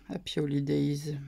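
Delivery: English greeting in a French accent. Real, not acted. Reads a holiday card message aloud, French accent. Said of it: "avec mon accent pourri".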